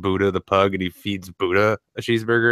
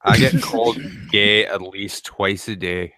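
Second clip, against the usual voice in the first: put-on Scottish accent. Doing the Scottish YouTuber.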